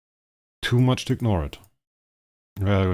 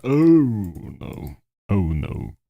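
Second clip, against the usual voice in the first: mock sick voice; 4 dB louder than usual. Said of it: "Everybody will hear me be like".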